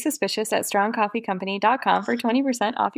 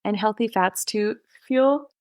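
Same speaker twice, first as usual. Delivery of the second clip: yawning. Real, not acted. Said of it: "yawning your way through this ad".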